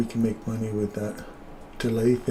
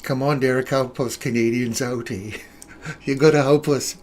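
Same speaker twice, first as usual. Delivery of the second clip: Canadian plea turning Scottish; lightly mocked Scottish accent; 4 dB louder than usual. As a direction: plead playfully in a put-on Scottish-Canadian accent. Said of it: "Oh, the Scotsman".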